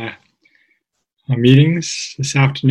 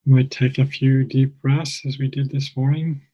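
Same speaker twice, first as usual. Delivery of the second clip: calm, measured meditation guide with long pauses; guided meditation. Real, not acted. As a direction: guide listeners gently, phrase by phrase, leaving space.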